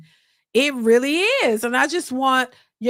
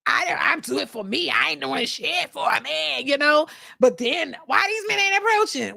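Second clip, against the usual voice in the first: mocking women. Mimicking women who contradict themselves, mock defiance. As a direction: parody the contradiction. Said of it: "you contradict yourselves".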